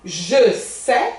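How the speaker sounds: "sais" said with an open e, no s; sais demo. Shown as a demonstration. Teacher models the open e sound in "Je sais". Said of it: "O que que acontece aqui?".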